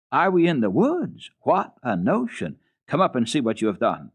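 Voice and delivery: mocking, scolding governess; scoff, then order her upstairs; scornful governess. Rottenmeier scolding Heidi.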